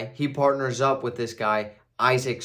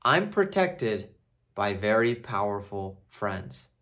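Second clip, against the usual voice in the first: slow confident warning; 5 semitones lower, 4 dB quieter, slower than usual. Retold or imitated. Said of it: "he says".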